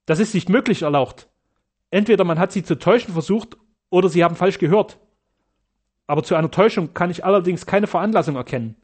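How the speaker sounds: startled protest to the count; alarmed. Acted. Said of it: "Sterner erschrak auf das Heftigste".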